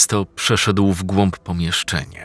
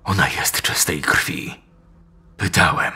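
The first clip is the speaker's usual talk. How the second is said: whisper. Acted. Old man confides to son.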